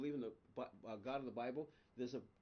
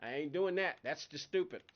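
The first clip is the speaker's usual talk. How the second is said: 1 blunt talk to God; 7 dB louder than usual. Retold or imitated. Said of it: "honest conversations with God".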